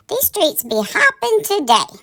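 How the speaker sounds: high gossipy whisper. Acted.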